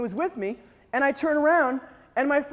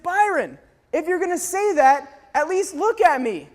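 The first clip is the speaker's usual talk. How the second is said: high, mildly exasperated retold plea; acted frustration; exasperated retort; 5 semitones higher than usual. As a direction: demand a friend's attention. Exasperated reply to his friend.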